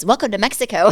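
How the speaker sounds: a loud mock Mexican accent greeting. Restaurant guy greeting customers, mock Mexican accent. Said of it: "this really thick Mexican accent says".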